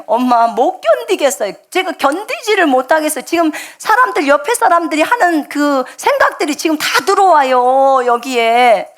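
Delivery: mildly voiced panic, begging for relief; distressed plea. Son tells his mother he can't bear the voices, high and pleading.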